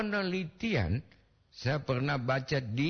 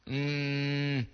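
ordinary talk, nothing marked

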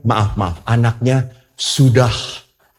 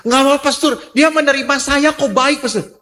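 high-pitched imitation of a pleading woman; acted pleading. Young woman defending her boyfriend to the pastor, acted pleading. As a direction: protest and plead, pitched well up.

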